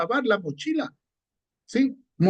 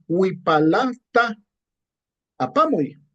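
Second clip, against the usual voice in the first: slow model phrase; slower than usual. Shown as a demonstration. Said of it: "Entonces decimos".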